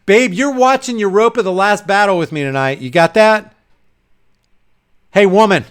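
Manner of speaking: pushy order, punched at the end; mock bossy husband. Husband ordering his wife to watch a film, mock bossy. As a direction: order her about as a joke. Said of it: "don't talk like that to her".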